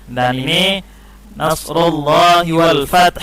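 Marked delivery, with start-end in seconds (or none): 1.3-3.2 slow chant, "fath" closed with an audible breathy h; sounded final consonant. Shown as a demonstration. Teacher modelling the verse ending, final h of "fath" sounded. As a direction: recite slowly and let the h of "fath" sound. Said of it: "Jangan fat aja".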